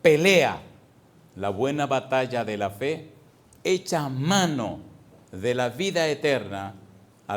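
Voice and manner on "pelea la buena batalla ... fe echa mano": a sudden shouted "fight!"; loud command. Acted. Preacher shouting Paul's command at the church, loud.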